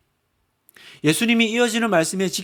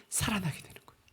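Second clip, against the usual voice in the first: whisper; 15 dB quieter, faster than usual. Real, not acted. Preacher drops to intimate close.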